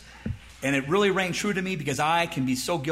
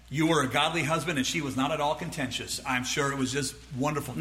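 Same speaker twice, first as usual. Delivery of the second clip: dry sarcasm; 4 semitones lower, 4 dB quieter, faster than usual. Acted. Sarcastically agrees with husband's excuse.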